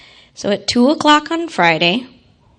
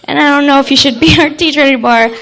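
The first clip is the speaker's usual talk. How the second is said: building louder, ending in a laugh; indignant child scolding; 3 semitones higher, 5 dB louder than usual. Retold or imitated. Child telling off her teacher, rising loud and indignant. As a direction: scold the teacher like a righteous kid. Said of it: "I said".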